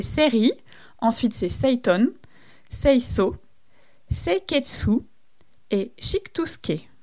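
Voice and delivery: lightly put-on Japanese accent, word by word. Shown as a demonstration. Podcaster lists the five Japanese terms for listeners, attempted Japanese accent. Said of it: "mon super accent, euh, japonais".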